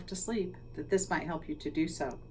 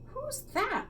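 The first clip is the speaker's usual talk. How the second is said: puzzled. Acted. Librarian puzzled.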